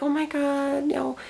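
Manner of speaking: high, soft, breathy disbelief; a gasped oh my God, no; mock gasp of shock. Imagined horrified daughter reaction.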